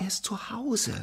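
unvoiced hushed confession; whisper. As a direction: let it slip in a whisper. Penguin confesses quietly.

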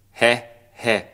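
loud, dirty snicker; dirty laugh. Acted. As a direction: snigger lewdly. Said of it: "Lach nicht so dreckig". (dreckiges, lautes Lachen)

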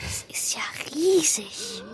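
slow, hushed whisper; awed whisper. Acted. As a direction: breathe it out in awe. Child awed by huge beast.

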